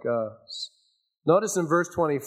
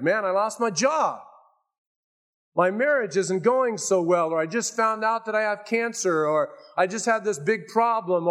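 higher, fretful voice of a listener listing troubles; worried churchgoer; 5 semitones higher than usual. Retold or imitated. Congregation member objecting to the preacher, worried and high. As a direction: voice the anxious complainer. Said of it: "You say".

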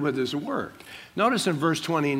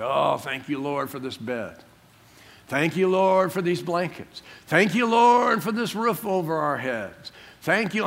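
lightly voiced dad calling out thanks; imitating dad praying. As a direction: stretch LORD like a father's heartfelt bedtime prayer. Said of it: "I could hear him down the hall".

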